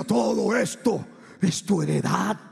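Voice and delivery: slow, loud booming proclamation; voz de trueno. Retold or imitated. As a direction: let it roll out slowly like thunder. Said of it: "una voz que retumbaba como trueno". (voz lenta que retumba como trueno)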